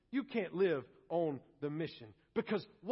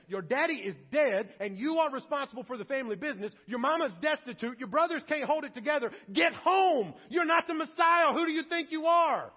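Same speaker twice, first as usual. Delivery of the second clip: rising louder, higher family scolding; 5 semitones higher, 6 dB louder than usual. Retold or imitated. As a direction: berate him like angry relatives calling him home. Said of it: "went to grab him and say".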